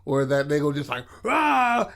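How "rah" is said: high-pitched cartoon roar of anger; mock yell. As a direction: imitate a furious "rah" without full volume. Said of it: "and just yelling at Dale".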